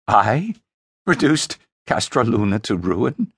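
mildly shouted disbelief; shouted cackling. Acted. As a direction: throw the accusation back, half shouting. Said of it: "he shouted and cackled".

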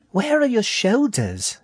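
very high, slow little rat voice; high-pitched small creature question; curious baby rat. A narrator's reading. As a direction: ask as a puzzled tiny rat. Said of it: "she asked".

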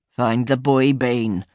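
low, slow royal command; stern king. Acted. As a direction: speak as a grave king. King gives orders.

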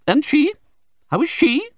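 high, loud sharp demand; sharply. A narrator's reading. Aunt sharply demanding news of the baby, high and loud. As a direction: snap the question at him. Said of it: "said my aunt sharply".

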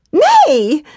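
sharp high loud refusal; gasped refusal. Acted. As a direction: blurt a shocked no. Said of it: "she gasped out".

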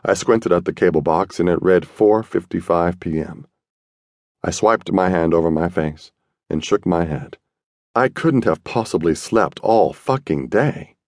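usual speaking voice

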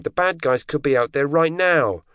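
high, drawn-out exasperated cry; heated, high-pitched insistence; screamed. A narrator's reading. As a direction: protest it high and slow, pushed over the edge. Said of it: "she screamed".

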